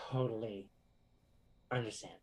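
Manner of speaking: a breathy unvoiced whisper. Real, not acted. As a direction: drop to a whisper for one word. Whispered aside to listener.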